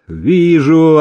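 brusque overseer cutting him off; curt rebuke. A narrator's reading. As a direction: pull him up short. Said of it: "одёрнул его селезень".

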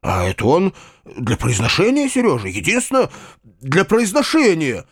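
high, imploring excuse; supplicating tone climbing high; pleading. A narrator's reading. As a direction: plead to be believed. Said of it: "проговорил дядя каким-то просительным голосом".

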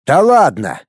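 disbelieving short exclamation; a touch of shock. A narrator's reading. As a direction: blurt it out in disbelief. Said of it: "в шоке высказался Цаплин".

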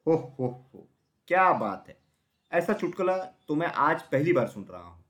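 mocking ho-ho-ho, then amused scorn; laughing heartily. A narrator's reading. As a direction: laugh off a ridiculous joke. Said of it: "जोर से हंसते हुए कहा".

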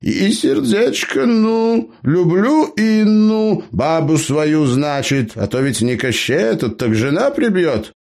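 put-on high-pitched cheeky old gnome. A narrator's reading. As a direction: play the crafty gnome, pitched well up. Gnome Eber speaks.

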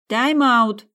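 very loud, high yell; shout. A narrator's reading. Sabina calling a time-out to the boys, very loud. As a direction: bellow it across the field. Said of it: "прокричала Сабина".

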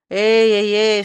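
the rat suddenly alarmed. A narrator's reading. The rat calls out to Ryska, alarmed. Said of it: "встревожилась тварь".

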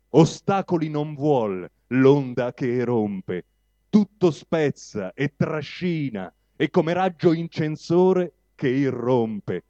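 declaimed verse, measured phrases with pauses between; poem recitation. Acted. Reading Oreste Verucci's poem of revolt aloud, declaimed.

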